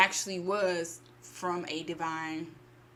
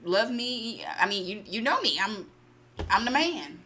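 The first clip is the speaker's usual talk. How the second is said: boastful husband; 3 semitones higher, 3 dB louder than usual. Retold or imitated. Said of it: "And he was like".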